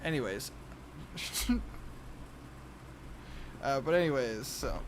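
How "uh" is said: ordinary talk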